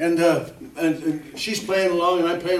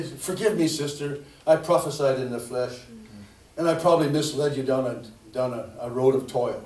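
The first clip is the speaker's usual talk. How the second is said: soft, lower, contrite apology; humble confession; 7 semitones lower, 7 dB quieter than usual. Retold or imitated. Preacher voicing a humble apology to a sister, soft and contrite. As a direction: quietly own the mistake to the sister.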